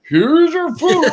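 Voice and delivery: high, sweet, fake-polite; chirpy customer-service voice; overly cheery worker. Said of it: "but they're like".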